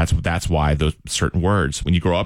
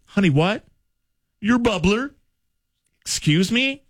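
confused teacher; 12 semitones higher than usual. Retold or imitated. Teacher confused by strange word.

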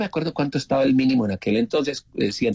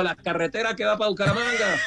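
punchline shout; 8 semitones higher than usual. Retold or imitated. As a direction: fire off the joke with a raised voice. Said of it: "Y yo le digo".

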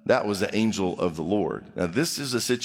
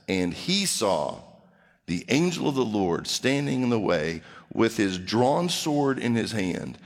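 solemn scripture reading; 3 semitones lower than usual. A narrator's reading.

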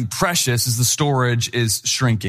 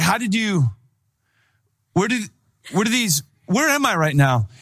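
baffled stammer; 6 semitones higher than usual. Retold or imitated. Baffled asking in the chop shop.

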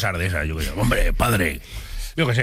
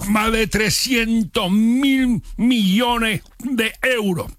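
high, slow, drawn-out star speech; a singer; 8 semitones higher, slower than usual. Singer telling fans the money is to make him rich, slow high impression. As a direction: dub a pop star's acceptance speech, high and slow. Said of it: "Eso es lo que diría ese cantante".

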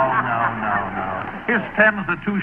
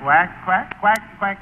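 quacking like a duck; 4 semitones higher, slower than usual. Acted. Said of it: "you have to quack like a duck".

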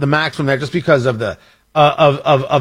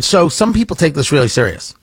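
usual speaking voice

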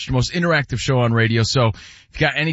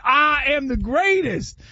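Ali quote; 11 semitones higher, slower than usual. Retold or imitated. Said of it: "I thought it said".

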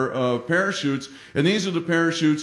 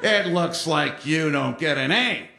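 leprechaun instructor. Retold or imitated. Instructor roaring up to the crashed cadet, sarcastic. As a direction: draw out the mockery in a put-on voice. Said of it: "the leprechaun comes roaring up and goes".

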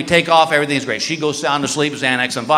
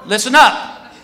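raised-pitch voice projected to a crowd; public announcement; 3 semitones higher than usual. Acted. Security guard addressing the whole line, announcing. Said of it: "he goes to this whole security line".

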